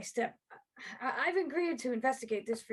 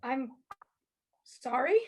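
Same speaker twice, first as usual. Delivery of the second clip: shocked; 4 dB louder, slower than usual. Acted. Shocked by murder confession.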